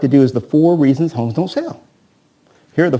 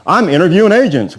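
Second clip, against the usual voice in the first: the same light mock seller again, a bit higher and louder; seller's line; 4 semitones higher, 4 dB louder than usual. Agent repeats the seller's stock line to the trainees, lightly voiced. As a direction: toss off the seller's stock line one more time. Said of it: "he talks like this".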